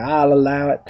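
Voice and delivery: judge's ruling in a light southern drawl; slight southern drawl. Shown as a demonstration. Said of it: "this sort of slightly southern drawl".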